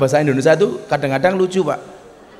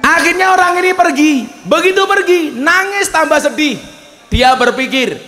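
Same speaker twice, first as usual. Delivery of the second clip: weeping woman; 7 semitones higher than usual. Acted.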